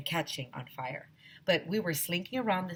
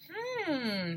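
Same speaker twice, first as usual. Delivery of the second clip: high thinking hmm; 10 semitones higher than usual. Acted. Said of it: "said Mister Klutz, scratching his head".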